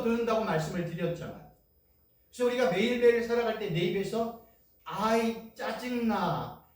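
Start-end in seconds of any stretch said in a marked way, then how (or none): 4.8-6.6 slow, whiny complaining; annoyed grumble. Retold or imitated. Believer grumbling about a bad day, slow and whiny. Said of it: "이런 고백을 하지 말라고 했어요".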